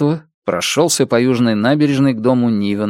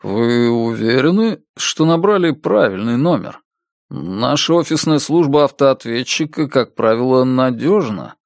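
feigned confusion. Acted. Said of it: "изображая замешательство с оттенком недоверия".

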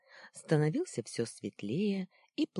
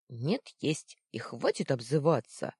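shouting back; 4 dB louder than usual. Acted. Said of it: "закричал первый".

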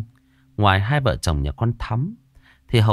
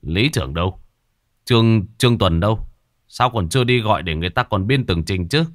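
forced calm. Acted. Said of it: "cố lấy giọng điềm tĩnh".

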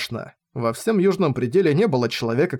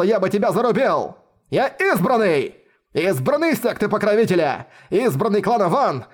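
high, manic raving boast; mad scientist; 4 semitones higher than usual. Acted. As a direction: rave like a madman, drawing out the end. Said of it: "безумно расхохотался".

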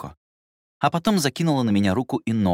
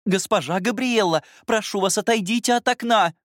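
high, raised governess call; loud calling; 14 semitones higher, 4 dB louder than usual. Acted. Governess calling the girl away from the window, loud and high. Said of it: "громкий голос Сильвии".

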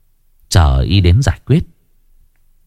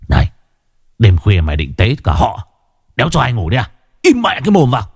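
cold bark; 2 semitones higher, faster than usual. Acted. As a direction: snap at him to shut up. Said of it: "Bằng một giọng lạnh lùng, Tiến quát".

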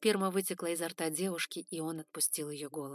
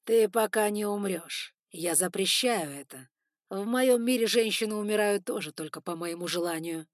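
commanding; 7 dB louder than usual. Acted. Lord forbidding her death.

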